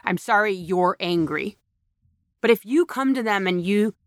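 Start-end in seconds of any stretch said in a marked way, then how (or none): 0.0-1.6 mock hollow apology. Speaker quoting the worst apology, hollow and insincere. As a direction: say sorry like you don't mean it. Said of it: "That's the worst apology".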